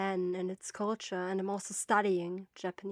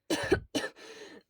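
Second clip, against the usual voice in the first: coughing. Acted. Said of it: "coughing hard".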